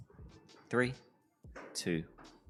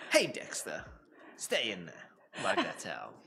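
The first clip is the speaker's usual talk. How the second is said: talking to a dog; 2 semitones higher than usual. Real, not acted.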